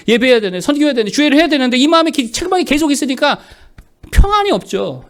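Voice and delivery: high, urgent pulpit list; forceful preaching. Real, not acted. Pastor listing neglected church duties, forceful preaching.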